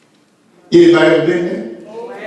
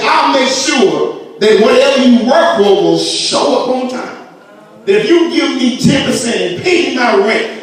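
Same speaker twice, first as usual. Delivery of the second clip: preaching shout; 5 semitones higher than usual. Acted. Preacher voicing God's promise.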